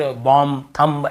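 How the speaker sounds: "बॉम्ब, थंब" with the final b sounded; wrong pronunciation. Shown as a demonstration. Teacher showing students' likely reading errors, mispronounced. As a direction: pronounce the silent B ending "बॉम्ब, थंब". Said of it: "इस प्रकार से English पढ़ने लगेंगे".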